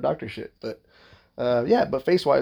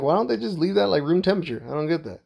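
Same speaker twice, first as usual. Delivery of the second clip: higher, mildly exasperated questioning; retold puzzled complaint; 5 semitones higher than usual. Patient joking to the nurse about cold iodine, puzzled complaint.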